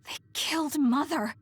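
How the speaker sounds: anguished realisation. Acted. Realising mother's death.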